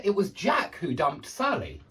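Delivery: "Jack" picked out with a pitch peak; stress on Jack. Shown as a demonstration. Teacher repeating the corrected sentence, stress on "Jack". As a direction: put the weight on "Jack". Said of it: "you put emphasis on that part".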